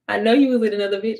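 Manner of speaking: quick, firm callout; calling him out. Retold or imitated. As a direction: snap it back at him. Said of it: "And I said it just like that".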